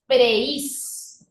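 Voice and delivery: "Preis" in one beat, E and I glided together; joined as one syllable. Shown as a demonstration. Teacher showing how it must stay, "Preis" as one syllable. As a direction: say "Preis" as a single held syllable. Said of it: "Debe quedar así".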